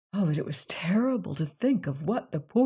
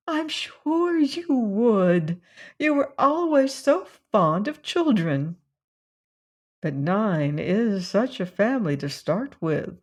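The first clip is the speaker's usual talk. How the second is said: lightly voiced fussy older woman, raised pitch; a hint of a gossipy aunt; fussy old cousin; 3 semitones higher than usual. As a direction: coax her like a meddling old relative. Georgiana persuading Valancy to marry.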